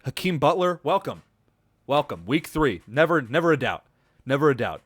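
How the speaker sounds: hyped praise for a player; excited welcome. Real, not acted. Podcaster hails a receiver's breakout week, excited. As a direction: cheer him in, voice up high.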